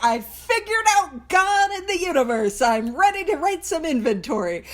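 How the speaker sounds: high, cocky self-mockery; a hammed-up victory announcement; mock triumph. Mocking her past overconfidence.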